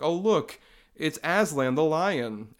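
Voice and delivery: sarcastic gee-whiz; mock excitement. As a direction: gush like a hacky parody. Mocking parody gag.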